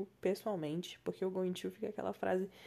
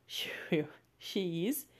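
whisper; 2 semitones lower, 4 dB quieter, slower than usual. Real, not acted. Laughing self-correction whisper.

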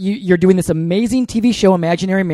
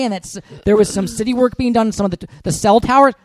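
rambling voicemail; 3 semitones higher than usual. Retold or imitated. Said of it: "left ridiculously long messages".

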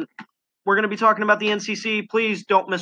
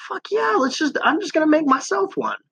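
excited; 10 semitones higher than usual. Retold or imitated. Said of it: "I was like".

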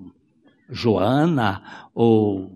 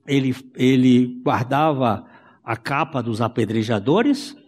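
ordinary talk

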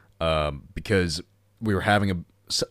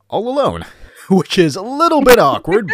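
laughing; 12 semitones higher, 9 dB louder than usual. Real, not acted. Laughing at own mistake.

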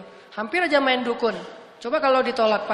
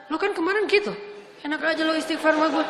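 higher, mocking grudge-holder's retort; a spiteful pal turning away an apology; grudging friend voice; 4 semitones higher than usual. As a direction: sneer it like a friend who won't forgive. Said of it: "Nggak ada Allah kayak gitu-gituan".

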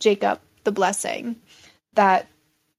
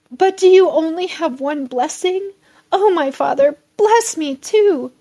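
a higher, louder mock plea, slowed at the end; pleading; 8 semitones higher, 6 dB louder than usual. Esau pleading with Isaac again, raised mild plea. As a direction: plead once more with the father. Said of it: "Esau pleaded".

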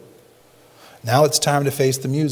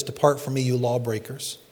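softer, grave 'Depart from me'; quiet sentence; 6 dB quieter than usual. Shown as a demonstration. Preacher giving the alternate wording to the flock, quiet and grave. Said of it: "Or you can say it like this".

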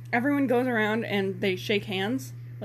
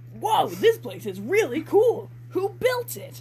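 higher, slow, wide-eyed amazement; awed boy; 7 semitones higher, slower than usual. Acted. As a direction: gasp at the cool hideout. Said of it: "he asks".

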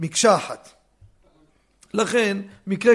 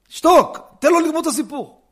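shouting shush; 9 semitones higher, 7 dB louder than usual. Retold or imitated. Rabbi hushing interrupter.

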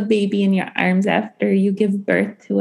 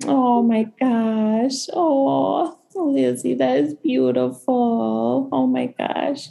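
deeply moved; 3 semitones higher, slower than usual. Real, not acted. Moved, soon near tears.

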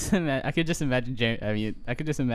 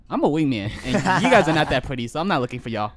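mocking; 3 semitones higher, 4 dB louder than usual. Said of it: "you hit him up with the".

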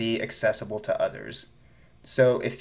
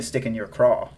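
light southern twang; southern accent. Real, not acted. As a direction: slip back into a southern accent. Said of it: "I went back south".

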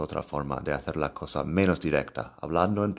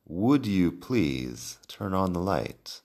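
slow model sentence; slower than usual. Shown as a demonstration. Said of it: "Otra forma de hacerlo sería con would".

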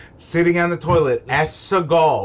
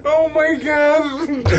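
laughing; 10 semitones higher, 4 dB louder, much slower than usual. Real, not acted. Reacting to joke.

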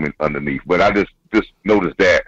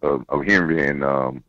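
over the phone. Real, not acted. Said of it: "I'm talking to you on the phone".

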